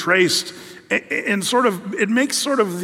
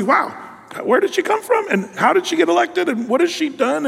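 mock amazement; 10 semitones higher than usual. Mocking public amazement at politician.

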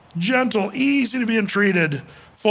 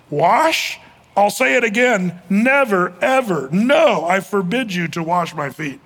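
insist, never, ever, no, drawn out slow; emphatic refusal; 2 semitones higher, slower than usual. Retold or imitated. Peter refusing Jesus, hammering each word of refusal. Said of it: "the sentence actually would look like this".

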